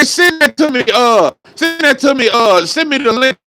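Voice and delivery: high mock eager critic; imitating critics. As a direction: ham up their eager request. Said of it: "they say".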